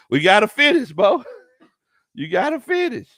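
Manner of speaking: loud and high urging. Real, not acted. Host urging the team to finish, loud and high.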